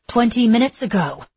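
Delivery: through gritted teeth. A narrator's reading. Flustered Gale answers Etta backstage, tense through gritted teeth. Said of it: "Gale said through gritted teeth".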